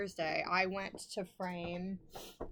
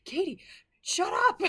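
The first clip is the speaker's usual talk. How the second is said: mock snapped shutup; 11 semitones higher, 10 dB louder than usual. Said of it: "And he's like".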